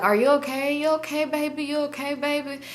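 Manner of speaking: high, cooing imitation of a lady; fussing concern. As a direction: mimic a lady checking on someone sick. Lady fusses over sick narrator.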